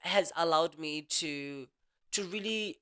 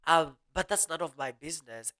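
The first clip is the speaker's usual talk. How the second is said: snapping back. Retold or imitated. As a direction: brush them off, stretching out the last phrase. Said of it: "I'll snap back at them".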